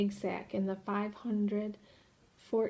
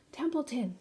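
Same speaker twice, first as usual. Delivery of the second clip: mild scream; 4 semitones higher than usual. Acted. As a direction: call the rat awake, half-hearted scream. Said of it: "screamed Wilbur".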